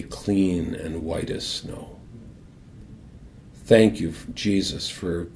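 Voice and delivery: guided prayer. Acted. Leads listeners in prayer.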